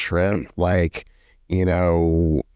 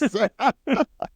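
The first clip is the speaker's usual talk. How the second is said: high laugh. Real, not acted. Laughing after quote.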